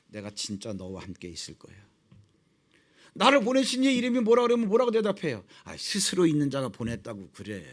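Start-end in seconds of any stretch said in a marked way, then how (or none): 0.1-1.7 a quiet, low God reassuring Moses; low gentle reassurance. Acted. 5.6-7.6 low calm God voice. Acted. God answers Moses calmly.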